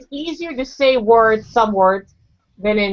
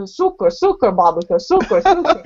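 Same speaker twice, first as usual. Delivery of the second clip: pleading tourist. Retold or imitated. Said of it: "I said".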